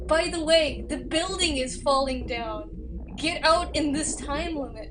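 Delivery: mocking the game. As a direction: parody the game springing a surprise. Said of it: "And then you're like".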